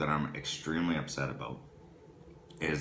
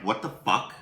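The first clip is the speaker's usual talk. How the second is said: retold exasperated swearing, a bit higher; mad outburst; 3 semitones higher, 3 dB louder than usual. Husband retells finding the wrong burger filling, mad. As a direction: replay your indignation at the food. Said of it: "Oh, I was mad".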